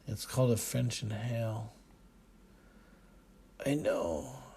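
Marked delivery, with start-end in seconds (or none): 3.6-4.4 louder wheezy reply while exhaling smoke; father wheezing with smoke in his lungs; wheezed. Acted. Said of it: "he wheezed".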